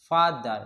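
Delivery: "father" with a rest on the first syllable; two syllables. Shown as a demonstration. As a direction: say "father" as fa, then ther. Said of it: "फा पे रुकना पड़ता है".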